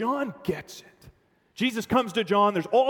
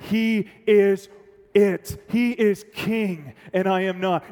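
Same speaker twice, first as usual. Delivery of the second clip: louder, slow declaration; bold declaration; 3 semitones higher, 6 dB louder, slower than usual. Acted. Preacher proclaims John's message, loud and slow. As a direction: proclaim it with weight.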